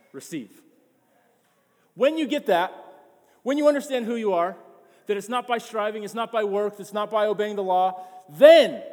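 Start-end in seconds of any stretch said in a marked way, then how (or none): 1.9-8.8 louder and higher, building to a shouted then; rising preaching shout. Real, not acted. Pastor lifting the congregation, building to a shout. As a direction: preach it, climbing to a full shout.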